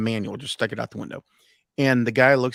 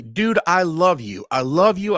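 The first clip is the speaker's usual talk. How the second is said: excited yelling; 3 semitones higher, 5 dB louder, slower than usual. Retold or imitated. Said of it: "screaming in the phone".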